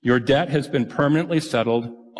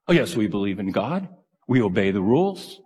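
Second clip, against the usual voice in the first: smug Pharisees; 5 semitones lower than usual. Retold or imitated. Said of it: "the Pharisees said they believed".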